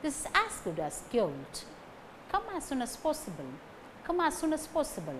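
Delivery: "as" left unstressed; weak "as". Shown as a demonstration. Teacher demonstrating conjunctions, "as" without stress. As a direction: pass lightly over each "as". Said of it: "these words do not carry major stress".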